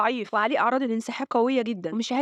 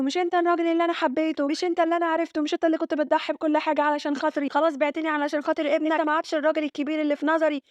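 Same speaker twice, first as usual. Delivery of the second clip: higher-pitched, mildly acted hurt and anger; retold distraught reproach; 5 semitones higher than usual. Aseel reproaching the man she loved, mildly acted distraught anger. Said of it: "وهي منهارة ومتعصبة".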